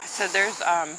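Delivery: out of breath after a steep climb; panting between words; gasping for air. Real, not acted. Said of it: "sorry, I'm out of breath".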